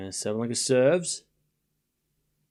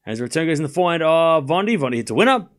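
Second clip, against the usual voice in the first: live tennis play-by-play; 5 semitones higher, 7 dB louder, faster than usual. Real, not acted.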